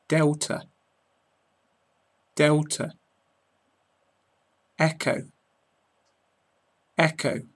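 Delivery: each word said twice, cleanly, with long pauses between; careful British pronunciation. Shown as a demonstration. Teacher modelling the NATO alphabet for listeners, clear careful British pronunciation. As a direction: model every word crisply for learners to copy. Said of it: "I'm going to go through saying each word or letter twice".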